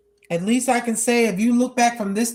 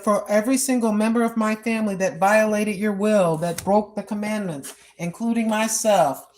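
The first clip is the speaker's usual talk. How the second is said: humble prayer. Retold or imitated. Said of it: "Just like that".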